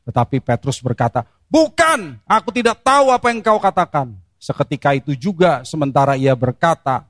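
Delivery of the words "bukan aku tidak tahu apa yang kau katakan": much higher, flustered denial; Peter's denial. Acted. Preacher voicing Peter's third denial, high and flustered. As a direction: brush off the accuser, pitched high.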